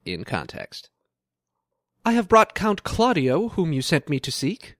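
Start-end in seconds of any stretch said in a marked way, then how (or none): 2.0-4.8 Shakespearean player. Acted. Reading the Much Ado scene aloud, theatrical. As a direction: announce it to the prince on stage.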